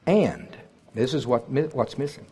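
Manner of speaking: ordinary talk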